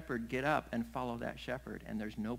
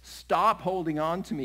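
loud, higher-pitched command; insistent protest; 5 semitones higher, 9 dB louder than usual. Acted. Jesus to a clinging Mary, loud insistent protest. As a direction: insist on being released. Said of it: "the tone of it as you look at it in".

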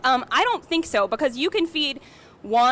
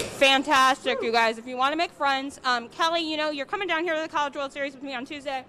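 talking through a big bite; chewing while talking; mouth full. Real, not acted. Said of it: "I apologize to all of Omaha for talking with my mouth full".

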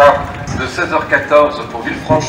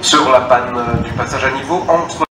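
station loudspeaker announcement; echoing public address voice; over a PA system. Real, not acted.

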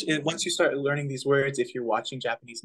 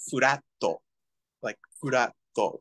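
Japanese pronunciation; slower than usual. Shown as a demonstration. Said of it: "Japanese is flat".

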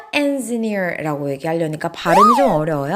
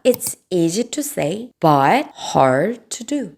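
model sentence; much slower than usual. Shown as a demonstration. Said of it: "영어로 어떻게 얘기하면 될까요?".

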